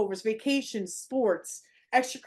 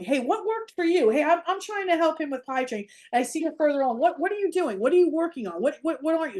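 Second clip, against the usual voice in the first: eager problem solver; 5 semitones higher than usual. Retold or imitated. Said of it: "Instead of problem solving".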